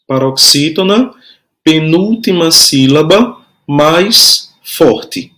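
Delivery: measured repeat with rising phrase ends; spaced-out teacher's dictation; slow dictation. Shown as a demonstration. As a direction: dictate piece by piece, closing on a fall. Repeating dictation for pupils writing.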